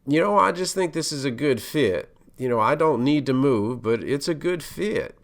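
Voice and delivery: a light, relaxed Texas twang. Retold or imitated. The boss on the hiring committee, in a lightly imitated Texas twang. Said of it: "in his Texas twang".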